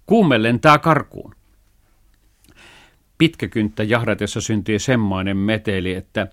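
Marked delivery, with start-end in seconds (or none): 0.1-1.3 high, loud alarmed call; father yelling that the fever escapes; father's cry. A narrator's reading. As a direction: shout the alarm to everyone. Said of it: "parkaisi isä".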